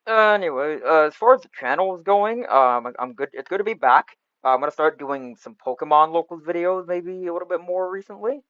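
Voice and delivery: cheap USB mic sound; bad mic quality. Real, not acted. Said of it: "sorry about the bad mic quality".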